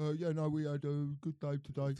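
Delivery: mumbly footballer interview impression; Harry Kane. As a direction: do a put-on footballer's post-match voice. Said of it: "I was gonna say Harry Kane".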